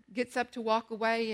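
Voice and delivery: ordinary talk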